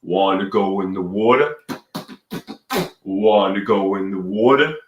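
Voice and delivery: Brooklyn come-on, stretching the last words; fake Brooklyn accent. Inviting a supermodel to swim, fake Brooklyn accent. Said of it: "I'm putting on a fake Brooklyn accent".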